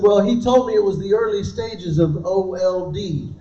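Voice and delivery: mock-serious, no hint of a joke; straight-faced. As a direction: deliver it like a grave diagnosis. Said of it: "With the straightest face I could pull".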